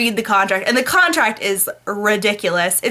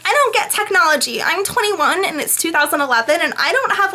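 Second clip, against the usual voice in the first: mock clueless Anna; 6 semitones higher than usual. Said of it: "she's like".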